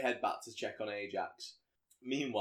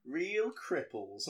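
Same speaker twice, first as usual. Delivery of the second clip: laughing quote. Retold or imitated. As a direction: laugh at the weird phrase while quoting it. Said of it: "she says".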